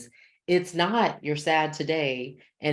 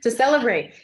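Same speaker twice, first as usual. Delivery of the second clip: playful; 9 semitones higher, 7 dB louder than usual. Real, not acted. Laughing at emoji joke.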